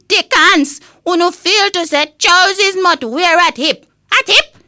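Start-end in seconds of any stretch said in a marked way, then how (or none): 4.1-4.6 incredulous. Acted. Incredulous echo of "at hip.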